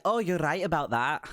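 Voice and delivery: lightly voiced cheerful woman in a put-on accent; a hint of a girlish, accented stranger; high-pitched female character. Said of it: "this high-pitched kind of jingle of a laugh".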